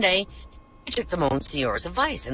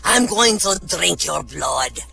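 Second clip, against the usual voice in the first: evil vampire; slower than usual. Acted.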